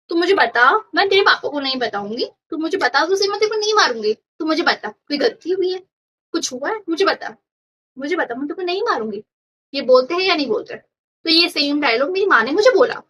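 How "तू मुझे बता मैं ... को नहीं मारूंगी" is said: imitating mom's dialogue. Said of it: "ये हर मम्मियों का एक ही डायलॉग होता है".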